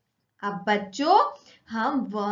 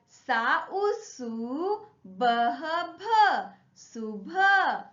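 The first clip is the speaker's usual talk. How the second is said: sing-song spelling chant, each syllable called out; lilting teacher recitation, rising on each new syllable; classroom syllable drill; slower than usual. Shown as a demonstration. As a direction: chant the sounds for children to echo.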